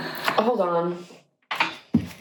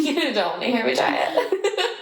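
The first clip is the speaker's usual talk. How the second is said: laughing through it, a bit slower; 4 semitones higher, slower than usual. Real, not acted. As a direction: giggle the words out.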